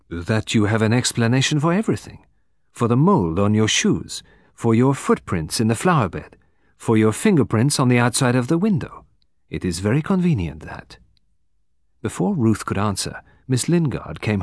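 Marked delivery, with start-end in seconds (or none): 0.1-11.0 put-on lightly accented detective listing evidence; measured, faintly accusing foreign detective; Poirot accusing. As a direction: lay out each clue with deliberate, pointed stress.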